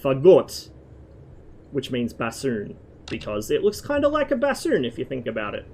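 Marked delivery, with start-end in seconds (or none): 0.0-0.7 "Fagot" stressed on the second syllable, fa-GOT; Russian stress. Shown as a demonstration. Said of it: "pronounced with the stress on the second syllable".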